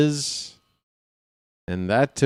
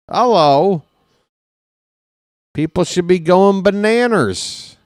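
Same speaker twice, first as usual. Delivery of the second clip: excited outburst; 8 semitones higher, 6 dB louder than usual. Real, not acted. Hyping the Orioles' tie for first.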